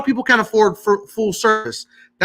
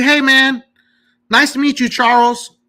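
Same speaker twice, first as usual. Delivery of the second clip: higher-pitched friendly caller greeting; super nice; 5 semitones higher than usual. Acted. Caller greeting a credit bureau agent, super nice. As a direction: play a chummy, extra-nice caller. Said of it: "I always am super nice".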